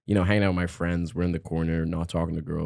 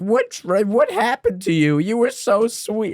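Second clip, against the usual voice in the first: high, slow, loud Jewish parent impression; wailing Jewish-parent caricature, drawn out; mock Jewish accent; 13 semitones higher, 5 dB louder, slower than usual. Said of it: "they all so turned super Jewish".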